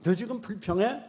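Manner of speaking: loud stern scolding, slowing in the middle; God rebuking. Acted. God loudly scolds the listener who grumbles. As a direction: rebuke the grumbler with full force. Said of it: "하나님 뭐라고 말해".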